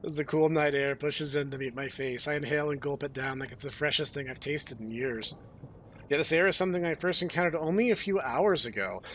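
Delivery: lightly dramatic first-person reading; story narration. A narrator's reading. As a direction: read it out like a tense novel. Reads the game text aloud.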